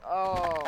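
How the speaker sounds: loud, drawn-out "oh"; mock cry. Figure attacked by his follower, mock cry. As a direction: pretend cry on being hit.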